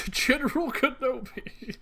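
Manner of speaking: high, slow, alien hiss of a cyborg villain; General Grievous impression. Answering the Kenobi greeting as General Grievous. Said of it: "Hello there".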